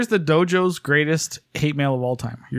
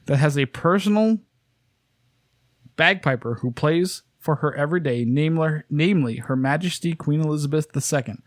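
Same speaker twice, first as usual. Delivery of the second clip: fake British. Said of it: "fake British".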